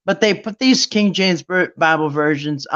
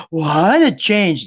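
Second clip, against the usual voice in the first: mock shock; 3 dB louder, much slower than usual. Mimes shock at altered Bible wording.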